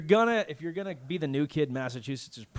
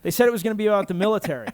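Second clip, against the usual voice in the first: fast; 5 semitones higher, 8 dB louder, much faster than usual. Retold or imitated. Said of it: "He's like".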